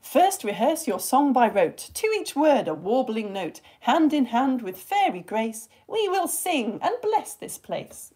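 slow, lilting Shakespeare recital; verse reading. Shown as a demonstration. Teacher reading Titania from A Midsummer Night's Dream, measured.

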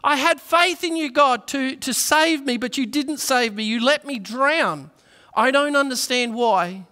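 high, loud protest to God; exclaiming. Retold or imitated. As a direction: complain loudly, feeling let down. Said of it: "at which point he exclaimed".

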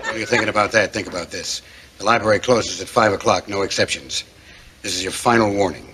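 menacing. Acted. Library cop threatening.

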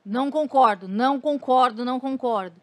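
indignant objection, retold; retold protest. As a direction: re-enact putting your foot down. Reencena seu protesto contra o convidado.

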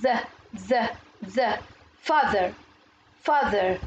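"ذ", voiced th, sounded alone and then inside "father"; th pronunciation. Shown as a demonstration. Teacher showing pupils the th in father, demonstrated "ذ" sound. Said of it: "ال تي اتش هنا بننطقها".

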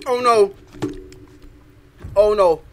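talking through a burning mouth; words strained by hot wings; mouth burning from spicy food. Real, not acted. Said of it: "Oh, my mouth is burning".

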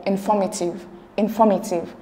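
"informative" with the stress on "for". Shown as a demonstration. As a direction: lean on the second syllable, in-FOR-mative. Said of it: "the stress is on for".

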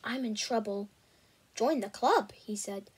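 steady storytelling read; audiobook-style narration; story narration. A narrator's reading. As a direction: read the chapter aloud to listeners. Reads a novel chapter aloud.

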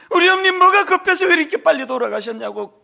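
loud, high grieving cry; bursting into tears. Retold or imitated. Son bursting into tears over his mother's sudden death. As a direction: let the crying burst out. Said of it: "울음이 터지는데요".

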